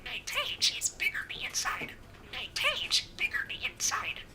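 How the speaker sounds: tiny squeaky budgie voice; chirpy little bird mimicking speech; parakeet chatter. Real, not acted. Budgie Disco talking in sleep.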